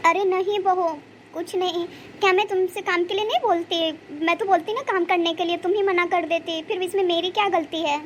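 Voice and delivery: acted hurt, a touch of crying; tearful protest. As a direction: plead your innocence through light tears. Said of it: "आप रो क्यों रही हो?".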